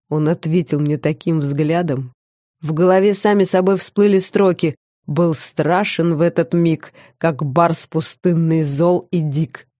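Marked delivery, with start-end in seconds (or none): 5.1-9.7 slow, measured recitation of verse; slightly dramatic, unhurried poetry reading; verse recital. A narrator's reading. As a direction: intone the lines of a poem, drawing them out. Lines of verse come to mind.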